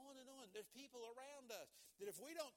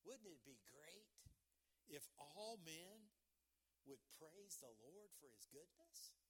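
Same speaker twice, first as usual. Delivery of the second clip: soft, slightly lower musing with long pauses; wistful, hushed daydream of the psalmist; dreaming aloud; 3 semitones lower, 6 dB quieter, slower than usual. Acted. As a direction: wonder it aloud, unhurried. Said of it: "is almost dreaming about".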